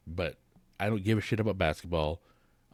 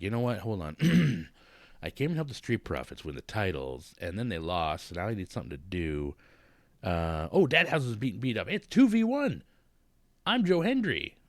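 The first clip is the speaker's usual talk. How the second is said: Joe Hendry impression; 3 dB louder than usual. Host acts out Joe Hendry running to help, building to loud. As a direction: start casual, end with a big hero entrance. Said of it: "who's like".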